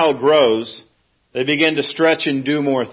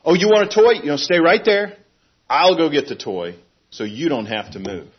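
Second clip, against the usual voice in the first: fussing parent; 2 semitones higher than usual. Retold or imitated. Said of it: "a good parent doesn't run up and say".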